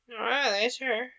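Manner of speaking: drawn-out Yorkshire aye; Yorkshire accent. Acted. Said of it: "speaking with a Yorkshire accent herself".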